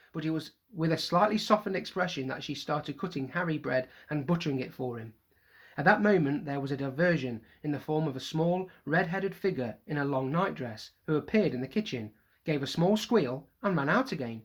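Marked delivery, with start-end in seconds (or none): none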